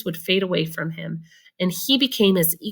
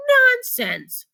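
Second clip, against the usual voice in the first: much higher, loud scornful shout; 4 dB louder than usual. Acted. The prince scoffs at Mister Wonka, shouting. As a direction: snap it out like a haughty prince. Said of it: "shouted the prince".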